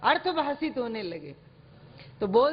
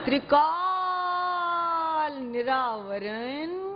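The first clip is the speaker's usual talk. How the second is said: slow ringing call; 3 semitones higher, much slower than usual. Shown as a demonstration. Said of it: "बोलो".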